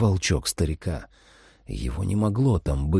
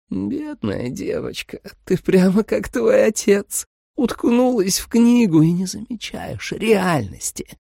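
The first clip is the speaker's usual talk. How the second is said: sweet vampire mother; 10 semitones higher, slower than usual. A narrator's reading. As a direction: lull the girl with fake tenderness. Vampire monologue.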